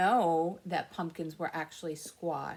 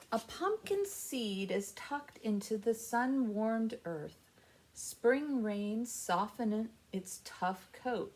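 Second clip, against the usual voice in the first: gentle storybook reading; reading to children; slower than usual. Acted. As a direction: read it slowly to little listeners. Reads picture book to kids.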